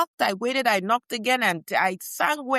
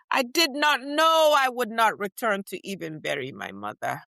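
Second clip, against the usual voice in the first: anguished cry. Acted. Crying out her lost mother.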